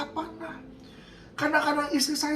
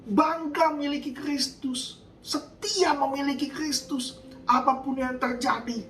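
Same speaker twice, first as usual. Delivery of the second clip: raised, driving sermon delivery; fiery preaching. Acted. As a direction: preach it hard to the congregation. Preaching at full force.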